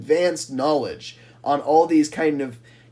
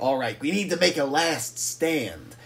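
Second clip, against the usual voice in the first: scheme quietly, with a touch of desperation; desperate; 4 semitones lower, 5 dB quieter than usual. Acted. Scruffy rallying the trucks for a last stand, desperate. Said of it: "would get more desperate and be like".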